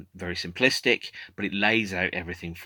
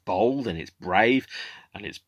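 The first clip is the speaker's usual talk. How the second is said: emphatic, a touch louder on key adjectives; mildly awed first-time viewer; 4 semitones higher, 4 dB louder than usual. Retold or imitated. Imagined newcomer reacting to the film, emphatic mild awe. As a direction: imitate an impressed newcomer, pausing between points. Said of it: "You were like".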